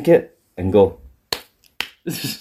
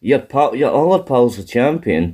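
lightly raised, scolding pitch; mock accusation; 3 semitones higher than usual. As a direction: hand down a mock reprimand. Acting out bosses punishing a wrestler.

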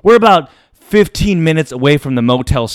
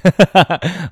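short mock chuckle; brief put-on laughter; imitated laugh; 2 semitones higher than usual.

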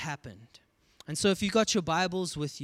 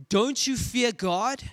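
high, louder, slow rebuke; stern rebuke; 9 semitones higher, 6 dB louder, slower than usual. Acted. Second criminal rebuking the first, a loud stern rebuke. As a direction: call him out sharply. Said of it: "the other criminal rebuked him".

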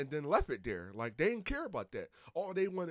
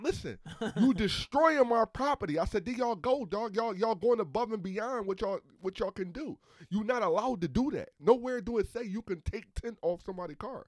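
loud, much higher, heated retelling; retold furious rant; 7 semitones higher, 6 dB louder than usual. Driver retells yelling at the cop over his windshield, loud and angry. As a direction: replay the fury at the cops, loud and high. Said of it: "I lost my motherfucking mind".

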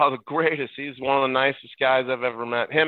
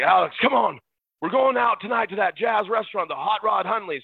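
higher-pitched coach rounding up company; retold eager invitation; 6 semitones higher than usual. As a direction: urge them out for the night.

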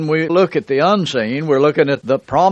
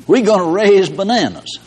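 talking soil screaming; 6 semitones higher than usual. Retold or imitated. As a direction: voice the stubborn soil as a playful mock yell. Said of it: "that soil started screaming".

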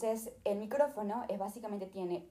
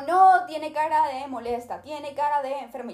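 mocking; 5 semitones higher, 8 dB louder than usual. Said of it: "se estaban burlando de mí".

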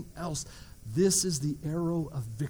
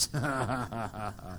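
evil laugh; 9 semitones lower, 7 dB quieter than usual. Pretend. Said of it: "that was evil".

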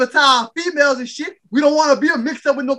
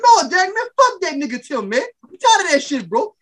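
fed-up outburst; 5 semitones higher than usual. Retold or imitated. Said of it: "looking at Derek like".

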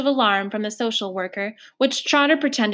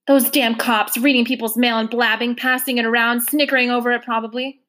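louder, resentful; a hint of a sullen girl ranting; lightly voiced angry girl; 4 dB louder than usual. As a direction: spit it out against the cops. Gilly angry about the postcard.

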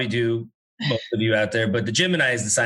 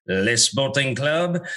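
put-on French accent; much slower than usual. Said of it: "I always go into a French accent".

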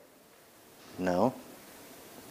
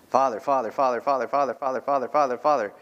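persistent calling; 4 semitones higher, 4 dB louder, faster than usual. Retold or imitated. Child calling on God.

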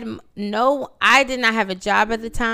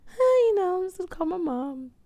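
so calm; 4 semitones higher, 4 dB quieter than usual. Retold or imitated. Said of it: "Like, just so calm".

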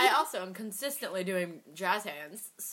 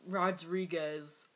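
drawn-out name; 3 semitones lower, 4 dB quieter, much slower than usual. Pretend.

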